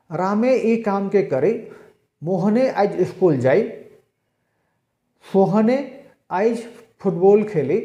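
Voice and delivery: रामे, मोहने and सोहने pressed on the name; stress on names. Shown as a demonstration. Teacher showing stress on names with रामे, मोहने, सोहने. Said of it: "संज्ञा के ऊपर में जोर देकर".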